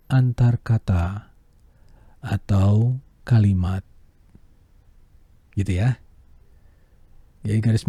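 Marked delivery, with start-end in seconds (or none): 0.1-3.9 slow with pauses. Shown as a demonstration. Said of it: "helaan napas panjang".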